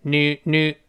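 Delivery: slow "nu" built from the n sound; tongue-tip n. Shown as a demonstration. Teacher explains the letter N, slow tongue-tip "nu". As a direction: slide the tongue off the upper gum into "nu". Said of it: "这么一个声音".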